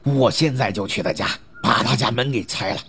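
angry gang boss threatening revenge; losing his temper. Acted. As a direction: vow angrily to get even. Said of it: "老大发火了".

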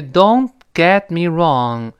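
"Don't get me wrong" slowly, t of "Don't" and "get" held unreleased. Shown as a demonstration. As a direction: stop each t without a puff in "Don't get". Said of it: "那个t失去爆破".

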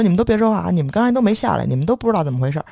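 imitated shutdown, starting high and settling; retold rebuff. Guard tells neighbours they saw nothing, imitated bossy rebuff. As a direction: mimic him brushing off the onlookers. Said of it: "就把大爷大妈就给怼那儿了".

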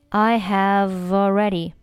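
"have already" joined through the v; careful model of "I have already", run together; linked pronunciation. Shown as a demonstration. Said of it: "辅元可以连在一起读".

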